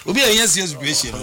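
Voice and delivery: quick, clipped-off retelling of the coach's words; exact quote, fast. Retold or imitated. Correcting the quote for the co-host, said fast. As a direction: rattle off the coach's line quickly. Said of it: "the exact quote man".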